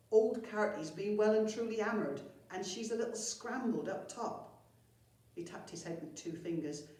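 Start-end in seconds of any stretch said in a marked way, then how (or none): 0.1-4.6 louder, higher goblin voice reporting bad news; goblin henchman. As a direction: break it to the boss, raised and a little nervous.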